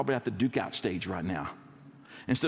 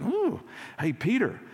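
1 gossipy disciple; 2 semitones higher than usual. Retold or imitated. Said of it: "and he's like".

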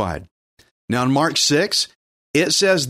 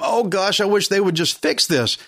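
fretful worrier; 3 semitones higher than usual. Retold or imitated. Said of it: "You're just concentrating on the problem".

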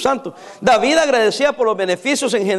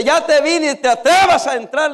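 put-on old lady warning; 5 semitones higher than usual. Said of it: "le dice".

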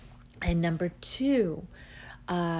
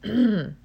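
throat clearing; 3 semitones higher, 8 dB louder than usual. Real, not acted. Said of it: "little bit phlegmy this morning".

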